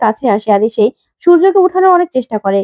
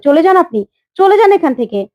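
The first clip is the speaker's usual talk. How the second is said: mild mock yell; 4 semitones higher than usual. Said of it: "চিৎকার করে".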